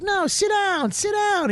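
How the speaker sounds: high-pitched, drawn-out urging, retold; insistent owner. Club owner urging a departing guest to stay, high insistent imitation.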